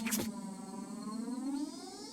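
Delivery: soft, high giggle; high laugh. Real, not acted. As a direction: giggle at your own joke. Laughs after joke.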